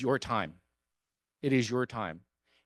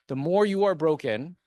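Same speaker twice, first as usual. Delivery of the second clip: louder, rising on more, pressing the point; emphatic opening; 3 semitones higher, 5 dB louder than usual. Real, not acted. Councilman urging broken listeners to run, emphatic louder. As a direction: hit the first "The more you are broken" hard. Rhetorical repetition building.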